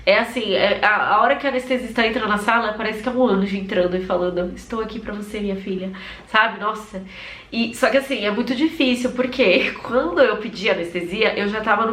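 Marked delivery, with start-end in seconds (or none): 4.6-5.9 tender, soothing angel. Retold or imitated. Anesthetist arrives like an angel.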